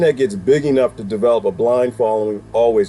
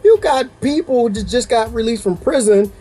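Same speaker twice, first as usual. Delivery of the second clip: raised, exasperated questioning; incredulous retort; 9 semitones higher than usual. Retold or imitated. Talking back to the panel on TV, incredulous and raised. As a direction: demand an answer in disbelief. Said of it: "And I'm like".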